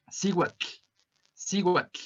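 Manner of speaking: cihuatl with a breathy, voiceless tl ending; Nahuatl tl sound. Shown as a demonstration. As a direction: finish cihuatl with air escaping over the tongue sides. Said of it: "lo mejor es que lo practiquen".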